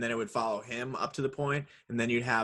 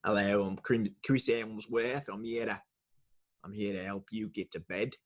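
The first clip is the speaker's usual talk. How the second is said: Australian accent impression; 3 semitones lower, 3 dB quieter than usual. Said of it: "is he trying to do an Australian ad?".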